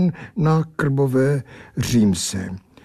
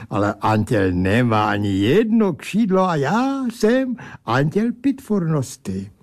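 put-on broken Czech with a German accent, slightly higher; indignant angel mangling Czech like a German; irked German-accented angel lecturing about wings; 4 semitones higher than usual. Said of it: "zvolal značně popuzen".

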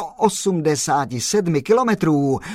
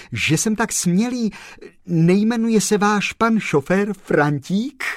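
higher, eager sudden question; blurted; 6 semitones higher than usual. Acted. Kolbaba guessing the chauffeur's name, blurting eagerly. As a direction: blurt it out in a rush of hope.

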